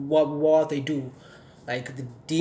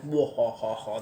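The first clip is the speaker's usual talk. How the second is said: mock deep demon laugh; 3 semitones lower, slower than usual. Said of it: "hearing these deep laughs".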